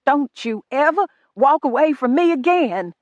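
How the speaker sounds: a son echoing his cruel father, angry and loud; commanding like his father. A narrator's reading. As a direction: order her like a harsh master. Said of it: "sounded more like his father".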